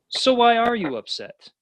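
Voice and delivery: high, slow, probing question; wise tortoise. Retold or imitated. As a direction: ask it slowly like an old master. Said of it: "He says".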